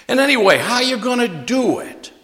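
high, scoffing mock of Greek hecklers. Preacher voicing Greeks who laughed at Paul, lightly scoffing. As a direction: sneer at the idea like a scoffing Greek. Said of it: "they laughed at him".

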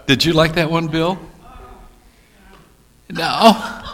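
usual speaking voice

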